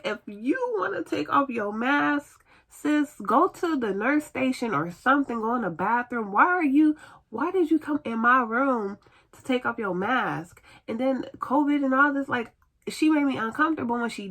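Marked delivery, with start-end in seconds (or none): 0.0-10.6 indignant telling-off. Retold or imitated. Patient silently scolding unmasked nurse, indignant and higher-pitched. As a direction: tell her off in a retold rant.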